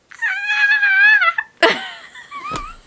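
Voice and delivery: high giddy laugh-squeal; delighted shriek of laughter. Real, not acted. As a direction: burst into a shrieking fangirl laugh. Gushing over her book.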